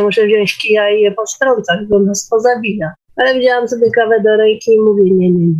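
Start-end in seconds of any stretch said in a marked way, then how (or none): none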